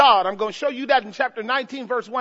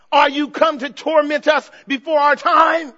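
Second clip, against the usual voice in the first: loud, protesting cry; demons crying out; 3 semitones higher, 5 dB louder than usual. Acted. Preacher voicing Legion's demons before their judge, crying out. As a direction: keep up the demons' loud outcry. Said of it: "a legion of demons shrieking".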